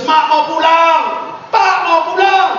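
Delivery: put-on child wailing to go home from boarding school; mock crying child. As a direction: whine like a homesick kid begging.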